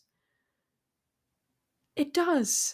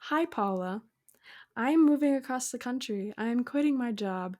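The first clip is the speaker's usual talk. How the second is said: calm announcement. Shown as a demonstration. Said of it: "let me repeat this".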